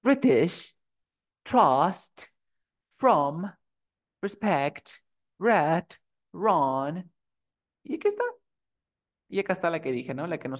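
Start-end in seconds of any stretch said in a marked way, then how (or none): 0.0-7.1 "British", "trust", "from" con la R bien audible; R pronunciada. Shown as a demonstration. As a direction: marca la R antes de vocal en "respect", "red", "run". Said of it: "se pronuncia. Por ejemplo". (lista modelo, "red" y "run" con R sonora)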